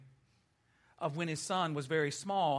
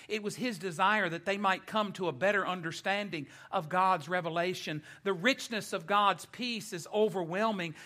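raised, emphatic pulpit delivery; preaching; 3 semitones higher, 4 dB louder than usual. Acted. Preacher explains God's unique peace, emphatic preaching. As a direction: proclaim it to the congregation point by point.

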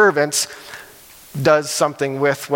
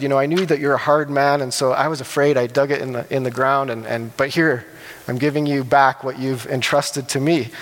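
timid servant; 3 semitones lower than usual. Acted. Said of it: "He was timid".

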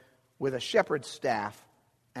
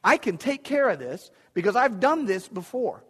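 casually cocky, a bit higher; confident boy; 3 semitones higher than usual. Retold or imitated. Young David assuring Saul he can handle it, breezy and cocky. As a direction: toss it off like a confident kid. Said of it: "David says".

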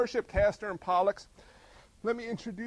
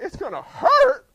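mock calm; 12 dB louder than usual. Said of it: "He would be like".

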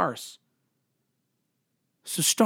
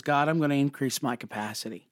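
simple prayer; 3 semitones lower than usual. Shown as a demonstration. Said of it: "pray a really simple prayer that says".

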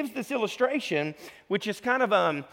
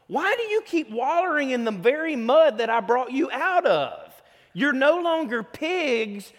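pleading Jesus; 5 semitones higher than usual. Retold or imitated. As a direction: beg them to stop wallowing, rising high. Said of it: "And Jesus goes".

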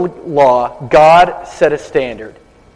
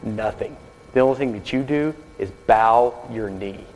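hushed and gentle, barely voiced, with a smile; soft smiling whisper; 5 semitones lower, 8 dB quieter than usual. Preacher reassures the nervous man in the water, whispered with a smile. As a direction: softly reassure him in a near whisper. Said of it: "the preacher smiles and whispers back".

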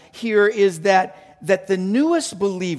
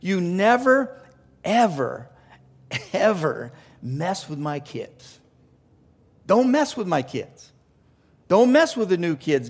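flat-out warning; 2 semitones higher, 4 dB louder than usual. Acted. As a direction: warn them off firmly, with pauses that give way to insistent repetition. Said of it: "in no uncertain terms".

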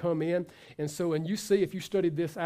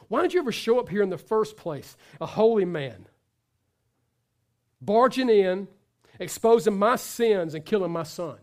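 louder, a touch of the widow's anger; accusing widow; 5 dB louder than usual. Acted. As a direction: throw the blame at the prophet.

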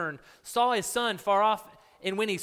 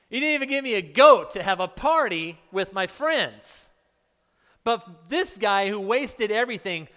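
louder, bitter rising protest; resentful complaint; 2 semitones higher, 6 dB louder than usual. Retold or imitated. Older son protesting to his father, louder and resentful. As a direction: hurl the grievance at your father, louder.

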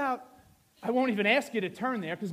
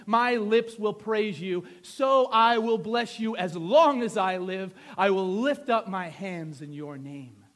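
scripture reading; 9 dB louder than usual. Acted. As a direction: declaim the psalm with weight. Reads scripture aloud with force.

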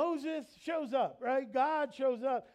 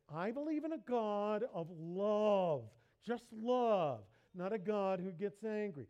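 a gently mocking, overly sincere believer; sincere but wrong voice. Preacher mimicking a churchgoer who rejects an angry God, mock sincere. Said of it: "That's my sincere but sincerely wrong voice".

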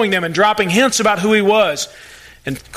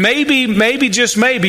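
slow urging; 3 semitones higher, much slower than usual. Real, not acted. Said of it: "preacher urging the hearers".

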